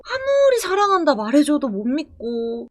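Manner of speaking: normal talking voice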